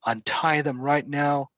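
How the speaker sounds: mildly angry sergeant, retold; retold pissed-off sergeant. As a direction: act out an officer's irate command. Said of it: "he was pissed".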